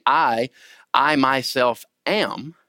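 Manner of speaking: slow "I, I myself am" with the I repeated and weighted; emphasis on I. Shown as a demonstration. Teacher paraphrasing the emphatic Greek, stressed I. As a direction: lean hard on the I, drawn out. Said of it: "tremendous amount of emphasis on the I".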